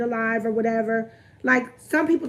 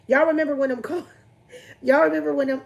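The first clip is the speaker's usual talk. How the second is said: laughing; 3 semitones higher, 5 dB louder, faster than usual. Real, not acted. Laughing over a memory.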